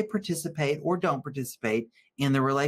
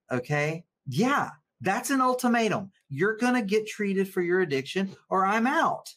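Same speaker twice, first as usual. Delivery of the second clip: rising indignation, voice climbing higher; worked up; 4 semitones higher than usual. Real, not acted. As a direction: pitch jumps way up, fired up on a soapbox. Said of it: "I got a little worked up there".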